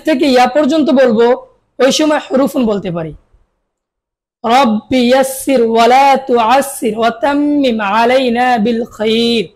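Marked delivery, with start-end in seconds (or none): 4.4-9.5 slow, measured dua recitation; prayer recitation. Real, not acted. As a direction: recite the prayer slowly and devoutly. Opening prayer before the lesson. (ধীরে দোয়া পাঠ)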